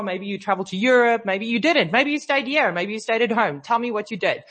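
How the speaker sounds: ordinary talk, nothing marked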